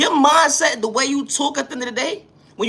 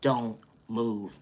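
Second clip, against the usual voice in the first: owner warning; 13 semitones lower, 9 dB quieter than usual. Retold or imitated. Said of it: "They saying to you is".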